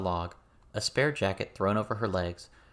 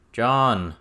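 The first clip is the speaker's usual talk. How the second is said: loud sharp call across the clearing; shouted name; 3 semitones higher, 10 dB louder than usual. A narrator's reading. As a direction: call his name to stop him. Matthew calls out to John.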